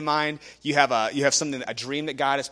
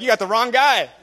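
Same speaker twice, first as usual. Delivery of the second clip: laughing it off, pitch up and loud; laughing protest; 9 semitones higher, 11 dB louder than usual. Retold or imitated. Imagining being called to speak, laughing loudly. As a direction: blurt it out through a laugh. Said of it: "I'd have been like".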